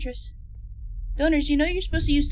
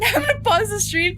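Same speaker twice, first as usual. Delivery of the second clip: scared whine; 7 semitones higher, 5 dB louder than usual. Real, not acted. Scared streamer wants to stop.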